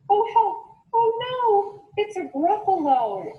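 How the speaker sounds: high panicked exclamation; frightened cry. Acted. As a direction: mouse shrieks at the monster. Mouse sees the gruffalo.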